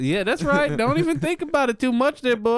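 high, quick cowboy twang. Pretend. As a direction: tease like a cowboy. Playing Cowboy Tim.

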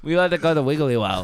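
attempted Aussie local; amateur Australian impression; Australian accent. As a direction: join in with mock Australian. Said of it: "tell the story in an Aussie accent".

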